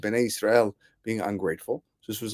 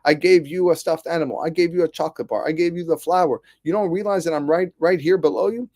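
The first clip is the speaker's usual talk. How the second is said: higher-pitched, rebuking father, each line pushed; upset father; 5 semitones higher than usual. Retold or imitated. Father rebukes son on his shoulders, upset and higher. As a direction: scold the son who forgets you're carrying him. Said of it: "The father gets upset".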